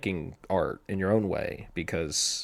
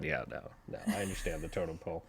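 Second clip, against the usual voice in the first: ordinary talk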